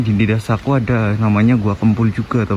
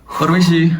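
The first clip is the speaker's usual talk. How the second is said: cave echo; 5 semitones higher, slower than usual. Real, not acted. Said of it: "suaraku menggema di sini ya".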